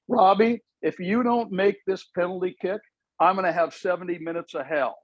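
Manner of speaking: mock plea. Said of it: "I went".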